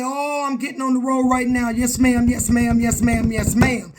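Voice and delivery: sarcastic repeated yes ma'am; mock eager obedience. Mocking the aunt's demand for obedience, sarcastic yes ma'am. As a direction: rattle off yes ma'am like a dutiful child.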